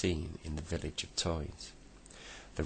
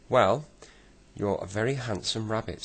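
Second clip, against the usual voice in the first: flattering; 5 semitones higher, 6 dB louder than usual. A narrator's reading. Silky flatters the rabbit.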